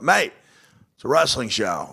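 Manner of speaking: lightly voiced Australian pal correcting him; Australian comic. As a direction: imitate an Aussie comic insisting. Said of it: "Brendan from Australia".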